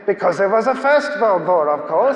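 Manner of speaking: imitated German-accented retort. German emigrant answering the speaker's obvious question, German accent. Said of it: "he spoke with a German accent".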